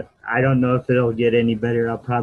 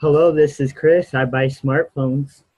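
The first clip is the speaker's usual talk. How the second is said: louder, more eager hello; enthusiastic phone greeting; 3 semitones higher, 4 dB louder than usual. Acted. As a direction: answer like a date just called you. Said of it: "answer the phone like".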